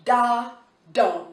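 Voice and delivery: Da light, dum stressed; da then a firm dum. Shown as a demonstration. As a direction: lean on the dum. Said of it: "where's the stress at".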